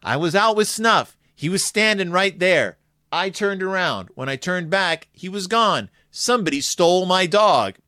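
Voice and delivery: mock-dramatic distraught dog owner; panicked Cousin Fred. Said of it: "literally what Cousin Fred says".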